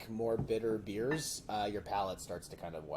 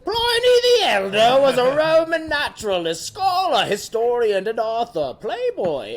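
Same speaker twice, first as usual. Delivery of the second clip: much higher, louder, slow grand narration; dramatic reading voice; 17 dB louder, slower than usual. Shown as a demonstration. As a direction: read it like a pompous documentary. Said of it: "I'll read it like this".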